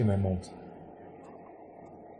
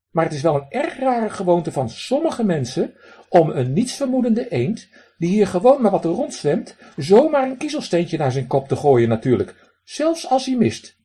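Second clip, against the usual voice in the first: high, loud duck voice with a raspy quack; 8 semitones higher, 5 dB louder than usual. Acted. Drake lectures the man who threw pebbles, high raspy quack. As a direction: play a cheeky drake scolding a stranger.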